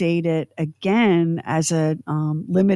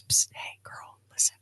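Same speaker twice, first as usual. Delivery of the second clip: conspiratorial whisper; hushed nagging voice in the head; little inner voice; 9 dB quieter than usual. Acted. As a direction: psst someone, whispering to get their attention. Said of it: "this little voice in my head".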